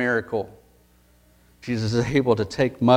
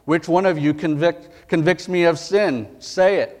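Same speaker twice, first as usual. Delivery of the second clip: Jesus challenging; 4 semitones higher than usual. Retold or imitated. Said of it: "He would ask them".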